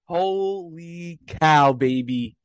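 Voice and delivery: hoarse from yelling, slow and strained; hoarse cry. Real, not acted. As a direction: voice worn raw from shouting. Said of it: "I'm losing my voice from yelling".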